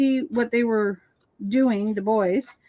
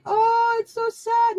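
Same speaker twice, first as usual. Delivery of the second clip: much higher, teary hammed-up whine; mock weepy whimper; 11 semitones higher, slower than usual. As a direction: imitate yourself crying at a movie. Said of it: "I'm like".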